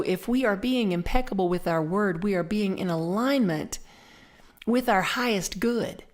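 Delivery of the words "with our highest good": whisper. Acted. Whispered phrase.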